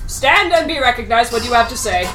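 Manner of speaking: lightly voiced imperious king; understated royal authority; kingly command. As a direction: address a subject as their king. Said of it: "like I'm king kind of way".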